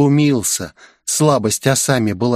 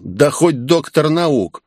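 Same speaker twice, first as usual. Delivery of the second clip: slow, cocky smirk; smirking retort; 4 semitones higher, slower than usual. Acted. Ichiro mocks the warning, smirking. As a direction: toss it off with a grin. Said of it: "усмехнулся тот".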